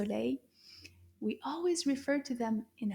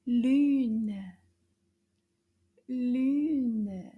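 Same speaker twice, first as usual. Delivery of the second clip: puppet voice; 6 dB louder than usual. Acted. Puppet answers with the word.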